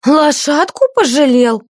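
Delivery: high, slow, furious mockery; enraged sneer. A narrator's reading. Mistress rages at the page's pity for the horse, enraged sneer. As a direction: flare up in rage. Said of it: "взъярилась его хозяйка".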